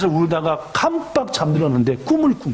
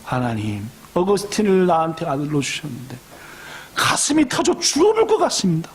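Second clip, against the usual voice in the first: weeping prayer; 2 semitones lower than usual. Acted. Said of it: "맨날 같이 울면서 기도만 했대요".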